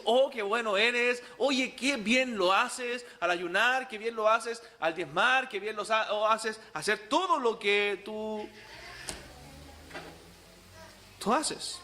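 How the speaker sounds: slow, self-admiring mock flattery; mock the Pharisee praising himself slowly; smug self-praise. Preacher imitating a man praising himself in the mirror, slow and smug. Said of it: "mirarse al espejo y decir".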